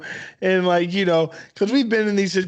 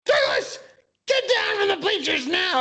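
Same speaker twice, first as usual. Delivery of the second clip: mock teacher voice, higher; a hint of a stern teacher barking; teacher scolding a student off the bleachers, mock stern; 13 semitones higher than usual. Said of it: "and she goes".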